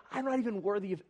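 lightly acted shame, sinking at the end; ashamed. Ashamed woman telling Jesus she is unworthy, voice dropping. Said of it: "she was full of shame".

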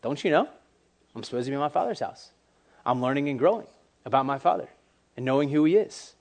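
understated, matter-of-fact delivery; deadpan. Acted. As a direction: act it out drily, with no show of emotion. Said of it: "said it with the most deadpan face".

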